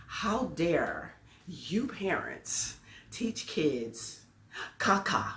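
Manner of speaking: slow, drawn-out mock outrage; retold indignation. Teacher scolding parents over what they teach kids, indignant. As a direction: stretch each word in measured indignation. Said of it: "And I got mad".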